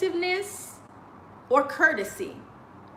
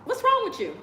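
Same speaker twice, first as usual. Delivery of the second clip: who-does-that outrage, climbing higher; incredulous; 7 semitones higher than usual. Retold or imitated.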